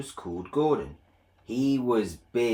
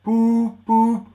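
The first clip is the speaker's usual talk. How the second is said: loud, higher grumbling honks; grumbling Gordon; 11 semitones higher, 13 dB louder, much slower than usual. Acted. Big engine grumbling at little Edward's help. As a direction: grumble it sulkily. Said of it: "grumbled Gordon".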